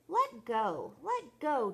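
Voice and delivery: pleading yell. A narrator's reading. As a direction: shout at the monkey to let go. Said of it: "Chucky yelled".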